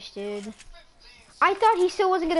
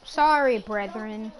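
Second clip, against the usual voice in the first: imitated Canadian accent; 5 semitones lower, slower than usual. Gamer quoting someone with a Canadian accent, imitated lightly. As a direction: mimic a Canadian "Sorry, brethren". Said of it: "'cause of his accent".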